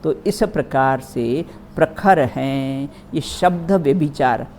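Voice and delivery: ordinary talk, nothing marked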